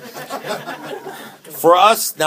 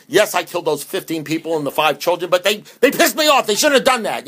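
mock self-justifying; 4 semitones higher than usual.

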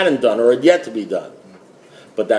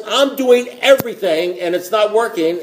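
whining; 5 semitones higher than usual. Retold or imitated. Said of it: "I say the words".

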